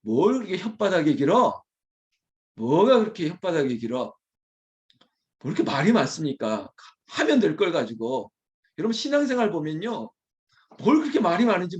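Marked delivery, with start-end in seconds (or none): 0.0-1.6 mock taunt leaning on 길어 with a falling end; scornful movie line, 길어 stressed and dropped; quoted movie taunt. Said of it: "대사 가운데". 2.6-8.3 mock taunt leaning on 뭐가 up front; scornful movie line, 뭐가 stressed; quoted movie taunt. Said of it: "대사 가운데".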